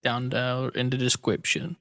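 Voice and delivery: put-on lightly childish, slow delivery; a hint of a little kid; childlike slip. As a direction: say it slowly, slightly kiddish. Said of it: "I turned into a child for that".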